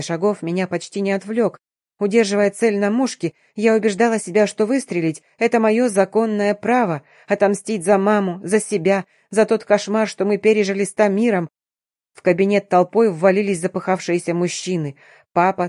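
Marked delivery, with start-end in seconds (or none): none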